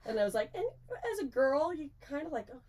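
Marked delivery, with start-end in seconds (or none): 2.5-2.6 high, hushed mock panic; morning-after dread. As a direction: act out dawning regret in a small high voice. Waking with dread after drinking, retold.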